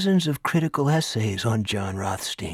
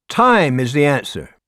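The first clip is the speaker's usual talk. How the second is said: a hint of a theatrical schoolteacher, a bit higher; lecturing teacher; 4 semitones higher, 4 dB louder than usual. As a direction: orate lightly to the class like an eccentric teacher. Teacher Ricker lecturing class.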